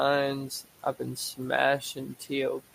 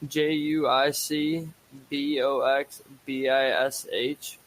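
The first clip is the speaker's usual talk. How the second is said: stoned. Real, not acted. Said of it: "I'm just really stoned right now".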